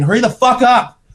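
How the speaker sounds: high, loud mock yell of the wife. Wife outside the stall yells at husband to hurry, high and loud. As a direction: shout at him to hurry from outside the door. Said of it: "She's saying".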